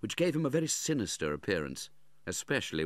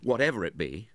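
angry; 3 semitones higher, 5 dB louder than usual. Acted. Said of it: "flushed with anger".

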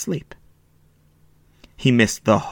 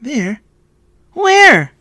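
high, distressed cry; boy crying out, near tears; almost in tears; 13 semitones higher, 8 dB louder than usual. A narrator's reading. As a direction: cry out, building to a loud wail. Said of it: "cried Shpeter, almost in tears".

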